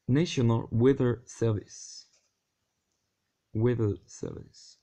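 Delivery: slow, careful English with a French accent; deliberate French-accented retry. Real, not acted. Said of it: "avec mon magnifique accent anglais".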